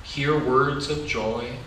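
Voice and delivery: slow, gentle picture-book reading; reading to children. A narrator's reading.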